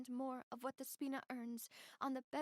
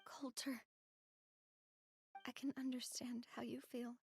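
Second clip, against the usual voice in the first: soft whisper; 4 dB quieter than usual. Acted. Consoling grieving Coulter.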